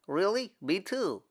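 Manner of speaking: eager, breathy whisper; thrilled but keeping it hushed; excited whisper. Acted.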